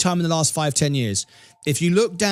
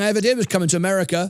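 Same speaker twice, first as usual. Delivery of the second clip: ordinary talk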